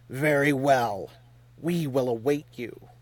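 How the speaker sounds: a measured, frozen concession; icy. A narrator's reading. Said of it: "voice might have been carved from the same ice".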